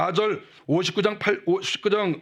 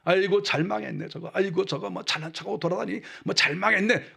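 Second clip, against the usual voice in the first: gloating enemy. Retold or imitated. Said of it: "망하는 거 보고 웃는 거예요".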